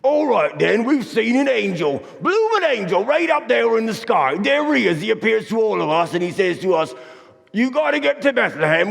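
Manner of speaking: high, excitable yokel shepherd voice, pitch leaping on blooming angel; crazy shepherd voice. Acted. Joseph mimicking the shepherd's angel news in a crazy high voice. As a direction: play a wild-eyed shepherd bursting with news of an angel. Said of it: "in the craziest voice you ever heard".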